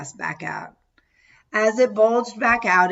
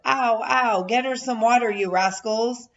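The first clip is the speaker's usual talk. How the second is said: higher, teasing re-enactment; mock replay; 5 semitones higher than usual. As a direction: replay the family joke. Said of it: "we laughed a lot over that episode".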